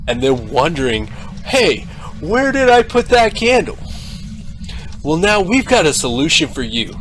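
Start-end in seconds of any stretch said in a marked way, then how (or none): 1.5-3.8 confused customer. Acted. Ad actor voicing confused customer.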